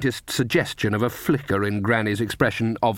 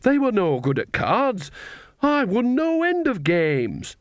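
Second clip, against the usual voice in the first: put-on indignant old woman; 11 semitones higher, slower than usual. Nanny defends herself indignantly.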